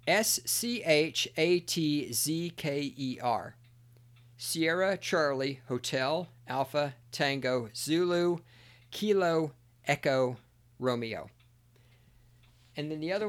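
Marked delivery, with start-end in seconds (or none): 0.1-10.4 letter by letter, slow and deliberate; spelled out slowly. Shown as a demonstration. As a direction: spell each letter out carefully. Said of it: "I can't say this guy's name".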